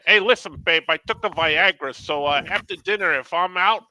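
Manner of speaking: lightly voiced TV Chicagoan; Vince from Mike and Molly. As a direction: imitate a Chicago guy advising his babe. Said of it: "Vince from Mike and Molly".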